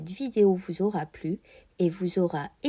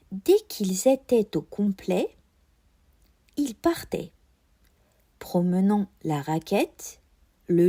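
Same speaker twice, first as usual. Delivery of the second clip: relecture de dictée. Shown as a demonstration. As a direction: lecture fluide en marquant les liaisons. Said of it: "relire une fois le texte ... en marquant toujours les liaisons". (relecture continue de la dictée)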